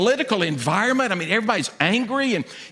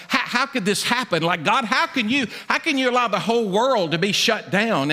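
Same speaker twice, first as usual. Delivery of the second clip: shocked questioning; 4 semitones higher than usual. Retold or imitated. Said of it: "There was this shock".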